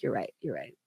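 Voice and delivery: soft and low, deflated agreement; lightly mimed sinking resignation; defeated mumble. Retold or imitated. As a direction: give up, barely voicing it. Resigned quiet reply to James.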